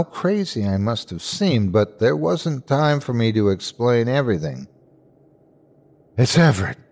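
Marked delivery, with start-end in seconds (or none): 6.2-6.8 panting after running; breathless gasp from running; out of breath. Acted. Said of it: "I gasped, still out of breath".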